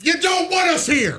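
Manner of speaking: high, drawn-out mock complaint; mock aggrieved. Co-host accuses host of not wanting them, mock aggrieved. Mock grievance at being shut out.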